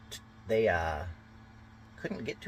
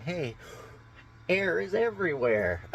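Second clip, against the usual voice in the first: high, bright-eyed, clueless "hey, air is everywhere"; mock naive high voice; 12 semitones higher, 4 dB louder than usual. Partygoer marvelling at air, squeaky high mock voice. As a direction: play the oblivious partygoer, voice pitched way up. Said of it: "You're like".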